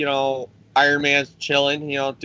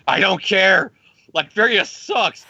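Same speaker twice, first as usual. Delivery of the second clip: petulant yelling; 5 semitones higher than usual. Retold or imitated. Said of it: "screaming at the guy".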